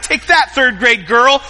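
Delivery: hammed-up victory taunt; mock gloating. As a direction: taunt the kid playfully. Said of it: "I'm like".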